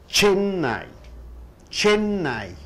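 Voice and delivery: Chennai, CHEN pitched high, then falling; stress on first syllable. Shown as a demonstration. Teacher modelling a noun for students, stress on first syllable. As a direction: hit the first syllable of Chennai, let NAI drop. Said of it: "Chen is the first syllable".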